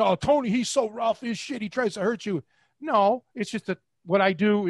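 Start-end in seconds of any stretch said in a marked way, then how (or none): 0.0-2.4 mock complaining, slightly higher voice; bitching. Guys on the internet complaining about Tony, mock bitching. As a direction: imitate internet gripers moaning about rough treatment. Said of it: "guys back then on the internet bitching".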